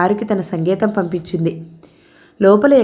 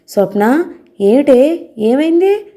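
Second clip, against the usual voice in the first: a frightened mother crying out, higher and higher; alarmed mother; 6 semitones higher, slower than usual. A narrator's reading. Mother seeing her daughter covered in blood, frightened rising cry.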